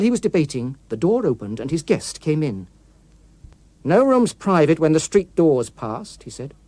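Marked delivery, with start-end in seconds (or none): 3.8-6.2 menacing policeman. Acted. Menacing guest entering uninvited.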